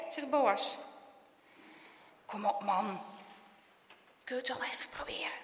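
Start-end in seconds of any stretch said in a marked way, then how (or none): 2.2-5.3 soft, half-whispered urging; quiet, persuasive whisper; hushed coaxing. A narrator's reading. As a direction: coax him under your breath. Boy secretly coaxes his friend.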